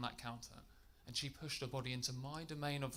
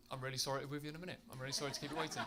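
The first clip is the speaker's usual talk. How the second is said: meek apology; 4 dB quieter, much faster than usual. Retold or imitated. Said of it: "What I actually said is".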